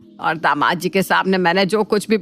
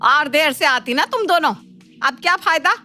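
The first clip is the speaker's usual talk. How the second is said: higher-pitched reproach; scolding; 4 semitones higher than usual. Acted. Mother-in-law to the two tardy daughters-in-law, scolding. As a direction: chide them for turning up late.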